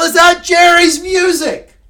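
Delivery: loud, drawn-out excited call; excited shout. Real, not acted. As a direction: shout it out in delight. Excited shout about theme music.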